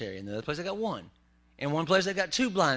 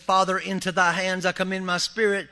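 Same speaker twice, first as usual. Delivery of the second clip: proclaimed loudly; 3 semitones higher, 6 dB louder than usual. Acted. Jesus's last words read aloud.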